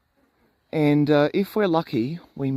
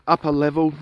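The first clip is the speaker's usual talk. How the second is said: just swallowed a bug; faster than usual. Real, not acted. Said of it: "I just swallowed a fly".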